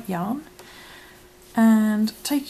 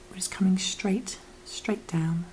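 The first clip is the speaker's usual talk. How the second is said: whispering. Acted. Whispered step.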